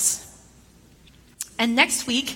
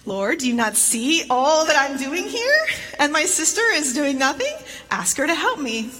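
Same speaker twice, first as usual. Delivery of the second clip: passive-aggressive complaint; 3 semitones higher than usual. Retold or imitated. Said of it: "slightly passive-aggressively".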